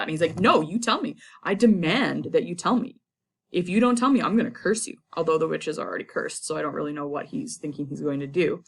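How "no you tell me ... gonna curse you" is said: louder, insistent hammed-up demand; mock demanding Macbeth. Teacher voicing Macbeth threatening the witches, hammed-up demand. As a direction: stamp your foot and insist.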